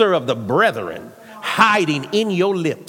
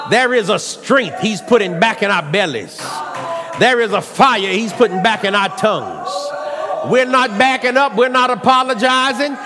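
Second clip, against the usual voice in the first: preaching at full force. Acted. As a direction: push it hard to the crowd.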